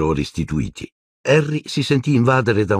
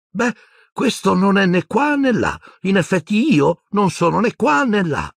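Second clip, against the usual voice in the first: sad little laugh. A narrator's reading. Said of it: "sbottò in una risatina triste".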